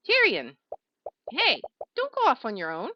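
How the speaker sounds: loud call after someone running off. Acted. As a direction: shout after him to come back. Calling after Tyrion running off.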